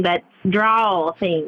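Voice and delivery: slow drawn-out Southern twang; Southern drawl. Shown as a demonstration. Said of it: "they have that twang".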